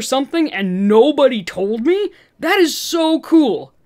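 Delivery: put-on bewildered, joking young man; young hero voice. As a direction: play it off with nervous jokes. Peter three's bewildered reply.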